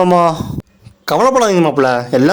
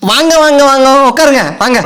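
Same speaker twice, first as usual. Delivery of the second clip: overjoyed welcome; 7 semitones higher than usual. Acted. Father-in-law welcoming son-in-law.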